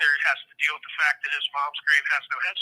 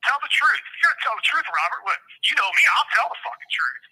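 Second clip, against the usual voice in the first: raised, higher voice, demanding the truth; angry scolding; 6 semitones higher than usual. Real, not acted. Father on a prison call scolding his son, angry. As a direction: tell him off hard, voice up.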